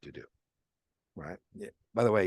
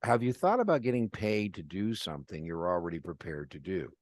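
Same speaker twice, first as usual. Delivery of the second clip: enthusiastic pitch; 4 semitones higher than usual. Retold or imitated. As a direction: pitch it to Mark with bright energy. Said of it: "I said".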